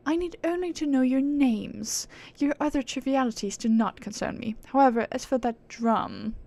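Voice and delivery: lightly haughty aristocratic British; British accent. Acted. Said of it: "why not give her a British accent".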